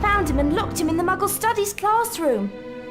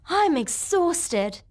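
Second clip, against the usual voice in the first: weary; much slower than usual. Acted. Tired pupil after the day's lessons.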